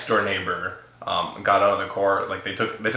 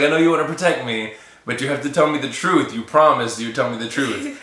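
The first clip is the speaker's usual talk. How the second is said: mock crying; 2 semitones higher than usual. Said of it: "But she started crying".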